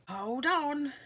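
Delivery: high, loud warning call; yelling. Acted. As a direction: shout to hold on. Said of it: "yelled the moth".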